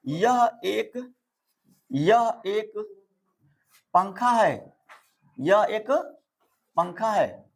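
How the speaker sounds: drawn-out words with long pauses between phrases; slow dictation. Shown as a demonstration. Teacher writing out an example sentence for pupils, slow dictation. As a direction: dictate it piece by piece, slowly.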